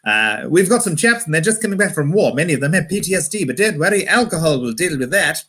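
mock old Pathé News posh accent; stiff upper lip RP. Newsreel man reassuring about returning soldiers, stiff-upper-lip RP. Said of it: "stiff upper lip".

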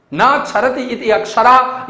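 ना क्षरति इति अक्षरः recited like a shloka; teacher reciting the Sanskrit definition; Sanskrit recitation. Shown as a demonstration. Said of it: "परिभाषित किया गया है".

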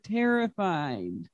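a teacher slowly modeling a word. Shown as a demonstration. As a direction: draw Terrified out slowly for the children to copy. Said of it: "Can you say that word?".

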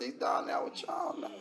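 whispered, teasing aside; whispered taunt. Retold or imitated. Preacher voicing angels taunting earth, whispered. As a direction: breathe it out like a sly secret.

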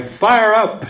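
high, shouted rally cry; cheering call. Retold or imitated. Lady in the back pipes up, high cheering shout. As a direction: rouse the room like a cheerleader. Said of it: "She keeps saying".

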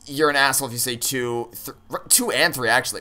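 usual speaking voice

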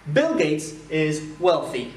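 phrases d'exemple détachées, très lentes. Shown as a demonstration. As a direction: articule chaque mot pour l'élève. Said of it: "Donc wealthy, c'est un T H". (la prof dicte lentement ses exemples)

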